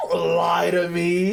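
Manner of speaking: slow, shouted disbelief; real amazed shout; incredulous shout. Real, not acted. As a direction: yell it like you've been lied to. Disbelief at voice actor's roles.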